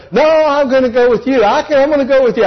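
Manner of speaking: put-on high, fast pleading kid voice; begging little brother. Little brother begging big brother to take him along, high and fast. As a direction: beg to tag along like a small boy. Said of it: "I begged".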